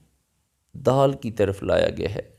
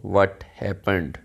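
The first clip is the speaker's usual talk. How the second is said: slow word by word; 2 semitones lower, much slower than usual. Shown as a demonstration. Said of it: "लेकिन अगर हम कोशिश करेंगे इसको प्रॉपर इंग्लिश में बोलना है".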